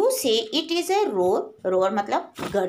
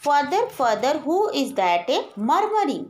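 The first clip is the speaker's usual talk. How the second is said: slow poem recitation; 3 semitones higher, much slower than usual. Acted. Teacher reading the poem line to her class, slow and measured. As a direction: draw out each word slowly, recitation style.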